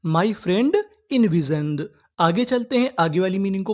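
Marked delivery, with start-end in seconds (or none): 0.1-1.8 very slow, each word laid out; envisioned drawn out clearly; slow teaching demo. Shown as a demonstration. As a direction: model the sentence slowly. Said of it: "जैसे मेरे दोस्त ने कल्पना की".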